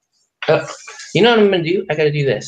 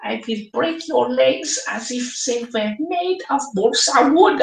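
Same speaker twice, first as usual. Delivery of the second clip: a slow, much higher mock German threat; German accent; 9 semitones higher than usual. German player threatening a kicker, slow mock German accent. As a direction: menace them like a cartoon German. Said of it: "An Oktoberfest laugh".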